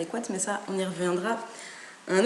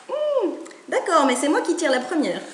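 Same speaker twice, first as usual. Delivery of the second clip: bossy chick; 7 semitones higher, 3 dB louder than usual. Acted. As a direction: drag it out like a stubborn little chick. Chick claims first draw.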